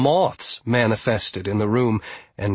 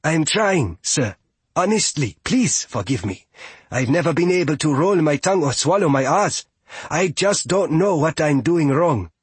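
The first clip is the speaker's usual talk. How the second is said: higher, flustered apologetic character; pleading young visitor; 5 semitones higher than usual. Acted. Fia apologises for mispronouncing, pleading. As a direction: beg pardon, earnest and polite.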